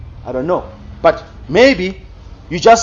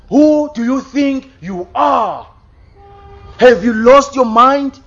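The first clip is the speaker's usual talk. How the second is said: raised, hammering preacher's rebuke; preaching at full force; 3 semitones higher than usual. Acted. Preacher rebuking his congregation over empty prayer, in a raised scolding voice. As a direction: pound each question at the congregation.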